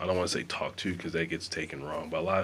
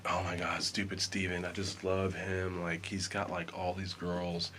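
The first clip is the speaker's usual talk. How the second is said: mock lovesick girl; 6 dB quieter than usual.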